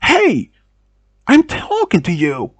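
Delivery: a sharp retold call for attention; screaming. Creep calls after the girl walking away, high mock scream. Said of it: "he started screaming".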